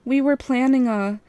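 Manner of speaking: nervous bright pipe-up; piping up. A narrator's reading. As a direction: pipe up quickly, covering a lie. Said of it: "I piped up".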